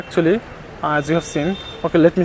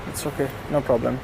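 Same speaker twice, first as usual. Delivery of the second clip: low, soft reassurance; quietly calm a shaken dog; gentle, hushed comfort; soothing; 5 semitones lower, 11 dB quieter, faster than usual. Real, not acted.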